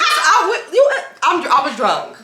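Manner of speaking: high-pitched laughing confession. Real, not acted. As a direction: blurt it out through laughter.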